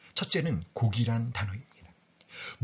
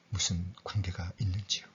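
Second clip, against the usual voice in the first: whispered question; 7 semitones lower, 7 dB quieter than usual. Acted. Rhetorical question to the congregation.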